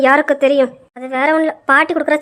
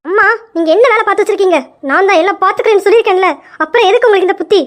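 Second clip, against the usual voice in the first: scolding mother; 3 semitones higher, faster than usual. Acted. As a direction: scold her mother for ruining the plan. Daughter scolds mother over blunder.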